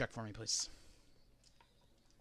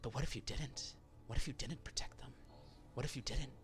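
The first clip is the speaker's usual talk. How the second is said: taunting voice; 11 dB quieter than usual. Acted. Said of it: "it begins to shift".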